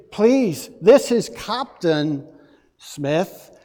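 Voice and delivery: a touch of a cross captain over the radio; mildly angry captain. Retold or imitated. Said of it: "the captain was furious".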